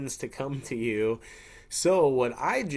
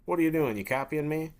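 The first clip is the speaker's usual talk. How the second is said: slightly raised, puzzled challenge; mildly agitated friend; 3 semitones higher, faster than usual. Acted. Friend challenges the person copying them, mild irritation. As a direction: question the copycat with mild annoyance. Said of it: "think about how agitated you would get".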